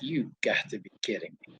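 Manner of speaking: very soft, low mock disbelief; imitated disbelief. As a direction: drop your voice as if stunned by nonsense. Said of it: "he is looking at me like".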